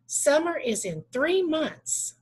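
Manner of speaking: a teacher's slowed, lifted example of excitement; excited. Shown as a demonstration. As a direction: sound thrilled that summer is coming. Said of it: "show emphasis or excitement".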